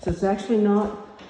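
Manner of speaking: breathless from climbing stairs; winded, panting between words; out of breath. Real, not acted. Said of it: "sorry, I'm out of breath".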